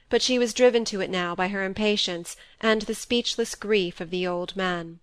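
usual speaking voice

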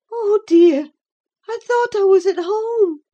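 high, loud lament; plaintive, pitched right up; sighing dismay. A narrator's reading. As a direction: lament like a homesick invalid. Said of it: "she sighed".

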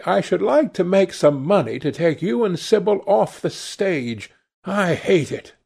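a hint of an indignant lad; sullen son.

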